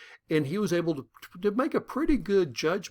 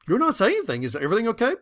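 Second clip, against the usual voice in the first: worried wife; 7 semitones higher, 4 dB louder, much faster than usual. Retold or imitated. Wife worried, voiced higher.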